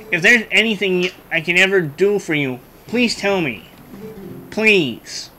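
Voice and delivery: lightly voiced nerdy boy prince; nerdy kid voice. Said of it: "I suddenly gave him a nerdy kid voice".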